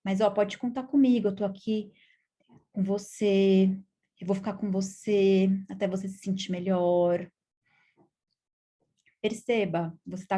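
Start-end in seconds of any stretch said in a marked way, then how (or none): 0.0-7.3 gentle reassurance. Shown as a demonstration. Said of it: "que se fale".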